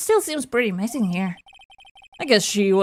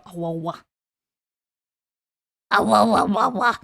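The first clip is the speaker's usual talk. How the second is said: dog imitation. Shown as a demonstration. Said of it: "I can do the dog".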